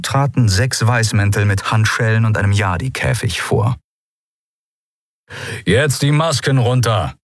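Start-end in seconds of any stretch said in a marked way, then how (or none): 5.6-7.1 higher-pitched brisk order; commanding. A narrator's reading. Commander to disarmed pirates, commanding. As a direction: order the prisoners firmly. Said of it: "befahl der Kommandant".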